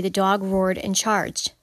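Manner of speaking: deliberate slow example reading; slow, careful clause. Shown as a demonstration. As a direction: slowly read example clause. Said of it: "first part of that independent clause".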